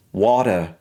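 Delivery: British "water", no final R; British accent. Shown as a demonstration. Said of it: "in the British version".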